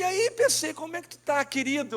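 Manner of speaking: bem mais agudo, alegre e surpreso; saudação animada. Retold or imitated. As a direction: reencontrando um velho amigo. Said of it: "Eu digo". (saudação animada e aguda ao amigo)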